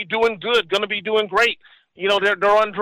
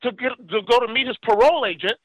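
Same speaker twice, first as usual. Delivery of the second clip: higher, exasperated retelling; raised-pitch mock complaint; complaining friend; 5 semitones higher than usual. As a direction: voice a frustrated ex-con.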